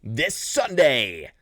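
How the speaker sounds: movie trailer voice. Acted. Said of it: "I can do the movie guy voice too".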